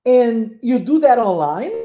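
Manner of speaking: slow clear model question. Shown as a demonstration.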